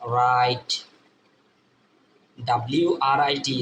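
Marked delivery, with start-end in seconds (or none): 0.0-0.7 রাইট with no W sound, set apart as a model; silent W. Shown as a demonstration. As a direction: say রাইট starting straight on the R. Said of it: "W এর উচ্চারণ হবে না".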